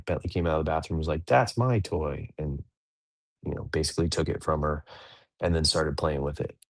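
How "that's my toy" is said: slow, higher mock kid's protest; imitated possessive child. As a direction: lightly act a kid claiming a toy. Voices child grabbing back a toy.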